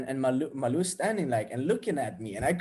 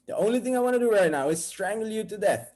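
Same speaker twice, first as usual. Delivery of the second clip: higher, mock-furious outburst; acted murderous anger; 6 semitones higher, 4 dB louder, faster than usual. Boyfriend wanting to strangle an admirer, acted fury. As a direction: let the jealous rage build in mock threat. Jealous thought, escalated.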